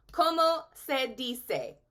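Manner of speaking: slow ¿Cómo se dice? with ¿Cómo stressed; slow model phrase. Shown as a demonstration. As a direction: spell it out slowly for the class. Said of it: "Say that with me".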